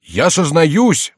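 high, loud, drawn-out confession; jester posing as king. A narrator's reading. Jester confesses on the king's behalf, loud mock penitence. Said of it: "продолжал за Генриха Шико".

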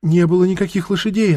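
high crone voice; old woman. Acted. Old woman answers interrogator.

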